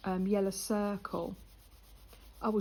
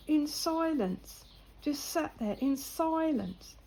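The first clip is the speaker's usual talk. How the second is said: mock disbelief; 5 semitones higher, slower than usual. Lad aghast at her quiet home.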